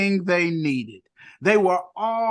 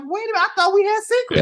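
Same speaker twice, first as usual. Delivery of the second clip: incredulous quote; 11 semitones higher, 4 dB louder, faster than usual. Retold or imitated. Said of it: "I'm like".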